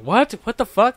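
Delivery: high, loud incredulous outburst; mock astonishment. Supervisor hearing of sponsored gaming, acted out in disbelief. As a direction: imitate a boss caught completely off guard.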